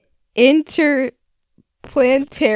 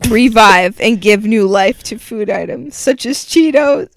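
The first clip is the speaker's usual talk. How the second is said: unvoiced mock ad whisper; hushed sales pitch; 3 semitones lower than usual. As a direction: whisper the ad copy like a secret.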